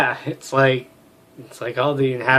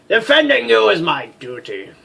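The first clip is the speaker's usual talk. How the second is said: louder, earnest vow; dutiful pledge; 7 semitones higher, 7 dB louder than usual. Acted. Warrior pledging to protect companion, earnest. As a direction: swear it like a knight.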